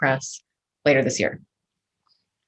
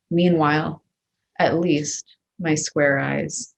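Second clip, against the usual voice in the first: measured, deliberate poem reading; a poet reading new work to a live audience, measured and deliberate; poetry reading. Acted. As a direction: read each line as its own image, letting pauses land. Poet reads her poems aloud.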